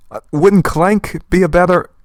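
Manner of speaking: normal talking voice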